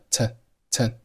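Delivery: "T" as a reduced "tuh"; weak TO. Shown as a demonstration. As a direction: shrink "to" to a short "tuh". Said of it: "to是弱读".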